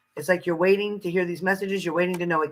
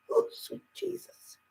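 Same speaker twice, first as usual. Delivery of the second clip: much higher, slowed, swooning sigh; delighted swoon; 12 semitones higher, 8 dB quieter, slower than usual. Real, not acted. Craving caramel on her cupcake, a high delighted swoon. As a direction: melt over the thought of caramel.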